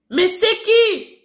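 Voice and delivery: slow, loud, irritated call through the door; grumpy voice behind a door; annoyed woman at the door. Acted. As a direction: demand who's knocking, drawn out. Woman answering the knocking.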